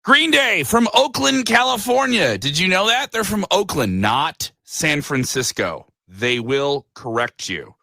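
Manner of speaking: radio DJ break. Real, not acted. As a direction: hit it like a live radio host, stretching the words. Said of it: "literally do a break on the radio".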